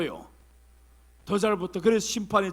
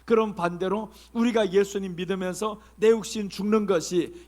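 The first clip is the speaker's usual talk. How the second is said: ordinary talk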